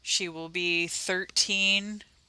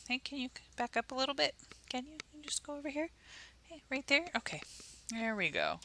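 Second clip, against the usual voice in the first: pet coaxing voice; 8 semitones higher, 10 dB quieter, faster than usual. Real, not acted. Asking the dog to move.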